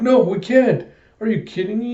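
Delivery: put-on high, loud little-girl protest; insistent child. Small girl refuses to go home, high protest. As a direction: refuse like an outraged kid.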